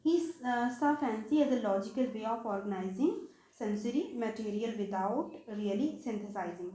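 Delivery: slow, deliberate reading of a definition; slow dictation. Shown as a demonstration. Teacher dictating a definition to her students, slowly and deliberately. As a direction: spell it out word by word so students can note it down.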